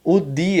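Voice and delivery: "di" with a pure D; "di" without any J sound; northeastern hard D. Shown as a demonstration. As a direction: say "di" the northeastern Brazilian way. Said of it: "ele vai ter que ser assim".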